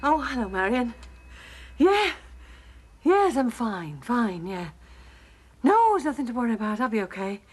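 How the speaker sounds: breathless from running; puffed after a dash; out of breath. Real, not acted. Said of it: "Sorry I'm out of breath".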